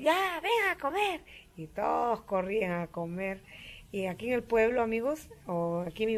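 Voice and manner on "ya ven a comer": very high, slow sing-song call; retold call to come and eat. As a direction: call out from the kitchen door.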